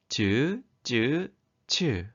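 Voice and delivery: 즈, 즈, 츠 as separate syllables, the second 즈 tensed; consonant demonstration. Shown as a demonstration. Teacher models consonants grouped by strength, 즈, 즈, 츠 sounded out separately. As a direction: sound out 즈, 즈, 츠 one at a time: plain, tense, aspirated. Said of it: "자음들을 발음해 볼까요".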